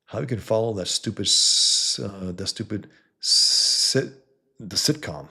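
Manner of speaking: stuttering on the s; tripping over the s sounds. Real, not acted. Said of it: "Damn it, guys. My goddamn S's".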